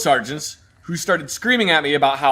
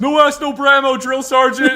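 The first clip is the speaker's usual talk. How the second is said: high loud joking shout; mock recruit call-out; 9 semitones higher, 5 dB louder than usual. Recruit joking to the drill sergeant, high loud call-out. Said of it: "somebody says".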